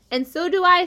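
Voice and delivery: high, tiny little voice; small spider voice. Acted. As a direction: squeak it like a baby spider. Nellie the spider speaks.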